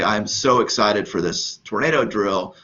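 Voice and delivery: dry, mock-enthusiastic sarcasm; sarcastic. Shown as a demonstration. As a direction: say it like you mean the opposite. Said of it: "essentially I'm being sarcastic".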